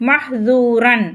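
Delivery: மஹ்தூரன் with air from the throat on ஹ்; airy "mah", then long "dhoo-ran" in மஹ்தூரன்; breathy throat h. Shown as a demonstration. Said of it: "தொண்டையிலேருந்து காத்து வர மாதிரி".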